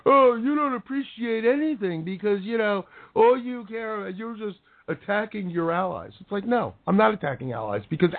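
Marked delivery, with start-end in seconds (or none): 0.0-6.1 a touch of put-on crying whine; lightly mocking tearful critic; mock whiny accusation. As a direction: parody the critics with a half-hearted sob. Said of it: "call me out and say".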